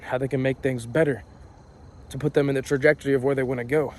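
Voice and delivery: winded after sprinting uphill; talking while out of breath. Real, not acted. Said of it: "Sorry, I'm out of breath right now".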